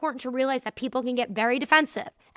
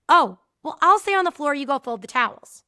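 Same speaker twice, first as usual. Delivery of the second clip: sarcastic boss; 2 semitones higher, 7 dB louder than usual. Retold or imitated. Boss brushing off the employee's excuse, snide. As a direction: toss it back with mock sweetness.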